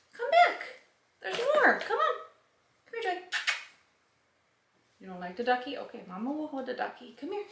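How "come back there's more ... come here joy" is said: higher calling out; calling the dog. Real, not acted. Owner calls her pug back to the box, high. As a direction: call her back cheerfully.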